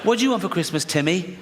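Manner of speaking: lightly acted, high-pitched dad; a touch of doting dad; father to child. Father asking his little son.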